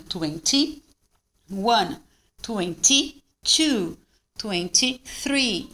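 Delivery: "Twenty-one" slowly, with a distinct "tee"; "twenty-three" with the Y clearly marked. Shown as a demonstration. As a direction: separate "twenty" from "two" and "three". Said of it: "ó, tá marcado".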